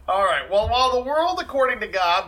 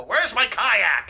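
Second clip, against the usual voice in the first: drawn-out mock cry; 4 semitones higher, much slower than usual. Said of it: "He'd go".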